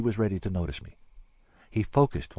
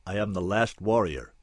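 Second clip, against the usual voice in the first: grave proclamation. Acted. Warrior first announces who he is.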